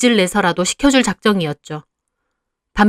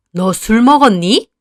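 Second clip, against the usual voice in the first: stern mother; 5 dB louder, slower than usual. Acted. Mother confronts drinking daughter.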